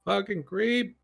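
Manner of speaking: high pitched yell from afar; yelled insult. Pretend. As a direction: shout it back over the shoulder. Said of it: "I wanna look back and just yell".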